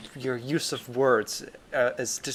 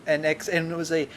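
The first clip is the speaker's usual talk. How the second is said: higher, breathy mock-tearful catch in the voice; hammed-up teary awe, barely holding it together; getting emotional; 4 semitones higher than usual. Interviewer tearing up over the orgasm scene, hammed-up emotion. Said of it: "I'm getting emotional".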